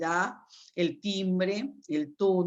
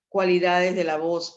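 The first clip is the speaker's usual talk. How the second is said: emphatic heading; 6 dB louder than usual. Shown as a demonstration. Announcing the new topic heading.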